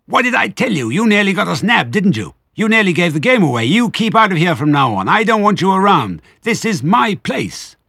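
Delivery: shrieking Rat. A narrator's reading. Rat shrieks at Mister Fox, furious. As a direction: screech at the foxes.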